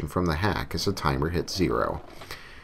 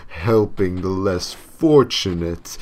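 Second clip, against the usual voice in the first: slow, louder, distorted devil voice; demonic voice; 2 semitones higher, 3 dB louder, slower than usual. Acted. The devil explaining Hawk's punishment, slow demonic voice. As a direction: lay out the cruel sentence with relish. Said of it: "The devil continued".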